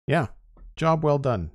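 bright, high "job well done"; upbeat praise. Real, not acted. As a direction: cheer "job" up high and falling. Praising finished build, then repeating.

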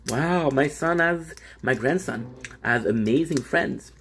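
lightly voiced grandma, slow and drawn out; slow, impressed reaction as a pretend grandma; a hint of an amazed grandmother; imagined grandmother. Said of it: "she'll believe you".

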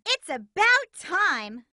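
slow, drawn-out exasperated shout; impatient call. Acted. Amy calls out impatiently to a late teammate. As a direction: let them know they're late.

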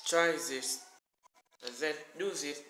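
normal talking voice

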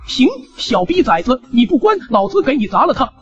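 put-on a furious old man about to smash it; threatening old man.

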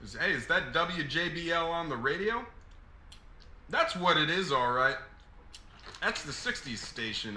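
put-on light Southern accent, easygoing attendant. Gas station attendant serving a lady customer, in a light Southern accent. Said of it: "putting on a Southern accent".

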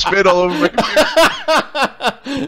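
high, loud, helpless laughing speech; cracking up. Real, not acted. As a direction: squeal it out through real laughter. Listener cracks up at the joke.

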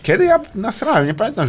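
high, baffled question; mock surprise. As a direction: play the clueless guy. Acting confused friend. (udawane zdziwienie, wysoko)

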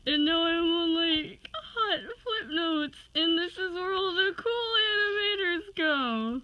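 choked-up, proud; emotional excitement. Real, not acted. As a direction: voice near tears with joy. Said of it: "I'm freaking out".

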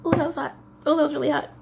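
high, surprised yelp of pain; startled by a hot sip. Real, not acted. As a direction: jump up in pitch as the drink burns. Reacts to a hot drink.

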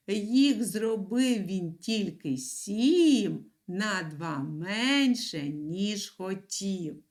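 reading a rhyme aloud to a class; riddle recitation. Shown as a demonstration. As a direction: read the riddle slowly to children. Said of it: "У нас є така загадка. Послухайте".

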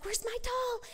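put-on high child voice for a toddler; lightly voiced toddler asking for her doll; little girl asking. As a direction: ask like a worried three-year-old.

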